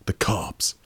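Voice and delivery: breathy hush, as if someone might overhear; whispered warning. Acted. Paranoid man on the phone whispering a warning. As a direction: drop to a secret whisper on "The cops.". Hushed warning about the cops.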